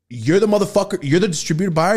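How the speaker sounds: high, loud astonished question; shocked disbelief. Retold or imitated. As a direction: sound floored to see an old friend. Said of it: "And he goes".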